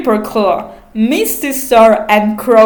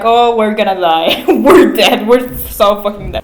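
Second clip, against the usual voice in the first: half-laughing panic, louder; laughing doom; 4 dB louder than usual. Retold or imitated. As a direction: laugh through mock despair. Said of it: "Rootspring is like".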